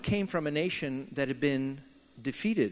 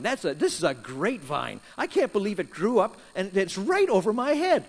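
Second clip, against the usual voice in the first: happy Jonah; 4 dB louder than usual. Retold or imitated. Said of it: "Jonah was very happy about the vine".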